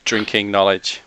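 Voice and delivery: mock-formal echo. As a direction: drag out "I thank you" to mock the formal thanks. Player mock-repeats the NPC's thanks.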